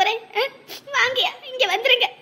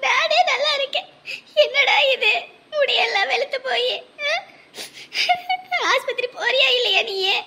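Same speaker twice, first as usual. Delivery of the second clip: tearful crying; 3 semitones higher than usual. Acted. Sister on a video call weeping over her sick brother, sobbing. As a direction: voice raised and breaking with sobs. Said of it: "அழாம எப்படிடா இருக்க முடியும்?".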